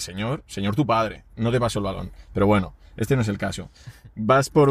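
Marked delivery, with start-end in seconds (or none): 0.0-2.1 mock rude retort. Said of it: "Porque dices".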